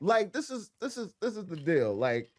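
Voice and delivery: talking through tight braces. Real, not acted. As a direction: speak around sore braces. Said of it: "I'm sorry, my braces are tight".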